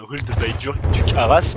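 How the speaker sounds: English title in a thick French accent; deliberate French accent. Real, not acted. Streamer dodging mockery of his English, French accent. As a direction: read English with French vowels on purpose. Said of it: "je fais le mec qui parle volontairement français".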